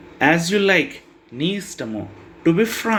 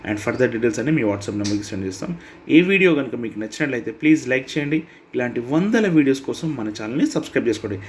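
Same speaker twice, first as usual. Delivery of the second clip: fast ad read, number digit by digit; quick promo read; faster than usual. Acted. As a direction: rattle off the offer and phone number briskly. Closing promo and subscribe request. (వేగంగా ప్రకటన చదవడం)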